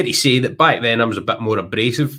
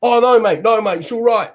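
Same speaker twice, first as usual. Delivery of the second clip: backing down; 10 semitones higher, 4 dB louder than usual. Retold or imitated. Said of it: "But the guy was like".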